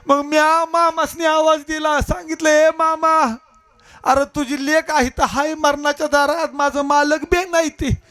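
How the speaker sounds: pleading village wife. Acted.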